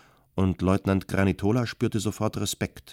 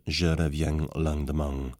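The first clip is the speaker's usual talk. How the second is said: "Je reviens lendemain" with southern French nasals, an audible G after each en sound, "reviang langdemang"; southern French twang on "lendemain"; "Je reviens lendemain" in a southern French accent, nasal vowels ending in a hard ng; 4 semitones lower than usual. Shown as a demonstration. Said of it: "jeder En-Laut mit einem deutlich hörbaren G verstärkt".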